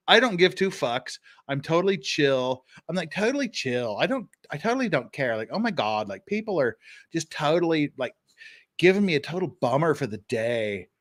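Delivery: mock Valley Girl indifference; lightly voiced, too-chill Valley Girl. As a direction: mimic a blasé Valley Girl. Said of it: "in a Valley Girl voice".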